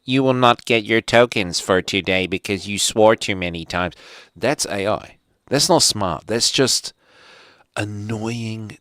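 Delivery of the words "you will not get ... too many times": a hint of a prim machine announcer; robotic system voice. Demolition Man voice fining Stallone, lightly mocked. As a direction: read it like a polite automated penalty. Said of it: "some voice goes".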